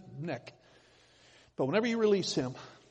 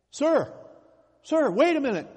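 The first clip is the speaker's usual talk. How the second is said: much higher, louder call; 10 semitones higher, 9 dB louder than usual. Retold or imitated. Inventor calls after the buyer walking off, loud shout. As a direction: holler to stop him leaving.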